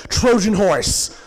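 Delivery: loud, high, drawn-out shout; imitated dream scream. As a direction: yell it like someone bolting awake from a dream. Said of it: "I just scream out".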